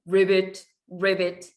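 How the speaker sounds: a teacher voicing a mother frog's ribbit; frog croak. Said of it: "엄마는 개굴개굴 울어".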